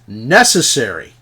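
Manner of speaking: indignant repeat; outraged echo. Acted. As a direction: throw her own word back at her, indignant. Dorian echoes her word, outraged.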